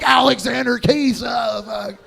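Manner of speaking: slow, loud hammed-up cry falling off; put-on shout of passion; mock ecstatic cries. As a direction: imitate a lover shouting out in climax. Mimicking a lover's cries in sex.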